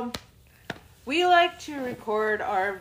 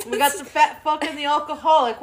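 laughing; 3 semitones higher, 5 dB louder, faster than usual. Real, not acted. Laughing joke.

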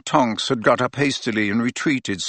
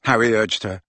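ordinary delivery

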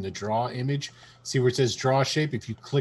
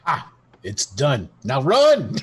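playful cry to flee; mock urgent shout; 6 dB louder, slower than usual. Calls out a mock escape, then laughs.

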